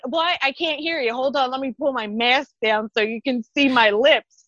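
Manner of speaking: high, mock-confused shopper behind mask; pulling mask down. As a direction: play someone tugging their mask down to talk.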